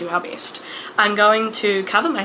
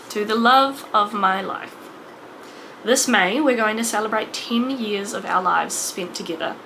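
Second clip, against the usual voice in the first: heartfelt letter reading. Real, not acted. Reads anniversary message to husband.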